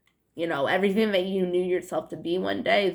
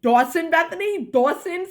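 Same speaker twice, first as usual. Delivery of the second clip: high, loud teasing question on "Dawson"; mocking her accent; 10 semitones higher, 6 dB louder than usual. Owen teasing her over her kid's name, mocking and loud. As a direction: poke fun, throwing the name back in disbelief. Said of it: "they'd make fun of me".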